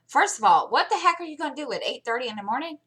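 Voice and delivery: high, fast, incredulous questioning; exasperated challenge. Retold or imitated. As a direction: fire off a retold parental objection, pitch climbing. Mother retells challenging son's plan.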